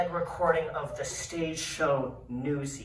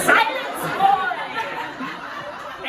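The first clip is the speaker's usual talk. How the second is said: high, thunderous cry of command; bridge troll; 12 dB louder, much slower than usual. Retold or imitated. Troll doctor interrupts the patient, shouting imperiously. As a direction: cut them off with a huge troll shout. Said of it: "He says".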